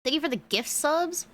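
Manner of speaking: high surprised thank you; delighted, caught off guard. Real, not acted.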